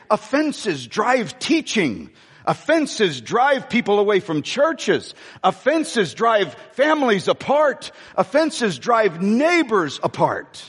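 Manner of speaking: slow, measured repeated refrain, each line punched; preaching cadence. Acted. Preacher to congregation, slow emphatic refrain. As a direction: drive the refrain home line by line.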